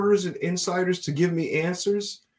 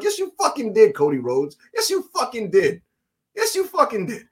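raised, punchy cheer; fired-up fan; 4 semitones higher, 3 dB louder than usual. Retold or imitated. Fan cheering on Cody Rhodes' promo, fired up. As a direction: egg your hero on, pitch lifted.

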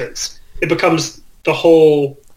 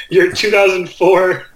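Walmart attendant voice. Pretend. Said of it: "Read the first page in your".

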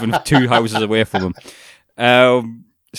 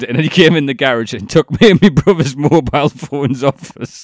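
ordinary delivery

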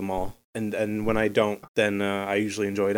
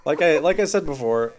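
laughing; 2 semitones higher, 3 dB louder than usual. Real, not acted. Laughing reply.

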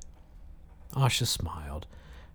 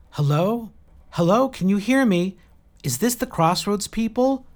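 high, raised radio call; 12 semitones higher, 6 dB louder than usual. A narrator's reading. Jill calling the Crossroads people by radio, calling out. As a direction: call into the microphone, questioning and projected.

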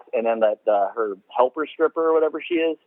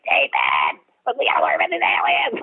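character actor impression; 10 semitones lower, faster than usual. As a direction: mimic a frantic movie character, pitched way up. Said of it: "I really like you doing this guy's voice".

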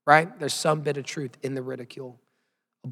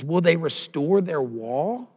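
mild mocking bully; 2 semitones higher, slower than usual. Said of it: "this is what a bully sounds like right here".

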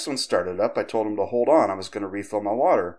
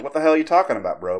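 higher, louder imitation of angry commenters; mock incredulous yell; 6 semitones higher, 4 dB louder, much faster than usual. People flooding the comment, mock outraged shout. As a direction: bark it like an outraged forum reply.

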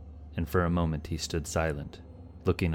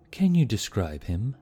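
high, louder eager start; urgent question; 5 semitones higher, 6 dB louder than usual. A narrator's reading. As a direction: press the stranger for answers. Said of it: "Shiva began".

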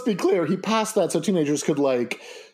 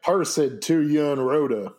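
put-on Tennessee accent; slower than usual. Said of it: "Canterbury Tales in a Tennessee accent".

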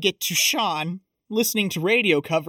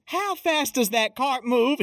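higher-pitched imitation of her question; retold cute banter; 6 semitones higher than usual. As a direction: quote her playful question in a lifted voice. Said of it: "And she goes".

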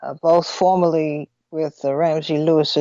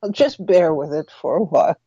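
laughing; faster than usual. Real, not acted. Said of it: "if I sound a little funny".

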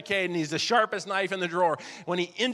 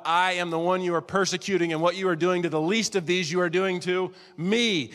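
voice of the Lord; 3 dB louder than usual. Acted. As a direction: speak as the sovereign one. Jesus speaking from heaven.

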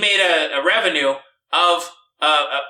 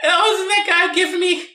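surprised; 11 semitones higher than usual. Pretend. Mock employee spotting the guy.

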